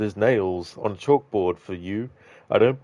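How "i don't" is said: talking through hiccups; interrupted by a hiccup. Real, not acted. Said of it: "got the hiccups".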